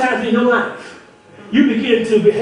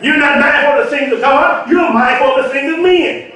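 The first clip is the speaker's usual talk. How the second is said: preached rebuke; 3 semitones higher than usual. Retold or imitated. Jesus rebuking Peter, preached.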